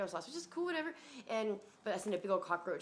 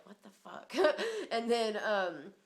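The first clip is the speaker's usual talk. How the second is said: laughing disbelief; 4 semitones higher, 6 dB louder, much slower than usual. Retold or imitated. Laughing at his talk.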